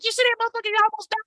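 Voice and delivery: excited neighbor. Retold or imitated. Neighbor telling the kids about the fall, high and excited. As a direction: gush like a nosy neighbor. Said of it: "They was like".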